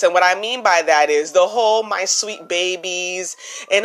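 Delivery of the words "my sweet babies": soft and slow, syrupy fake sweetness; phony sweet voice. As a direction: coo it like a put-on auntie. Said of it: "a little less phony voice".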